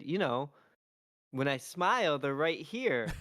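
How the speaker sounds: put-on dad lightly doing his little girl's voice; young daughter's voice. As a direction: mimic your small daughter earnestly.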